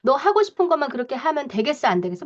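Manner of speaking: mock parental telling-off; admonishing parent. Judge-type parent scolds a child over kindergarten, admonishing. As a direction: reprove a child point by point. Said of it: "이런 식으로 막 훈계를 탁탁".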